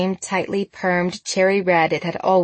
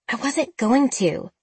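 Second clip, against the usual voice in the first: irritated; 5 semitones higher than usual. Acted. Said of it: "Sabrina said irritably".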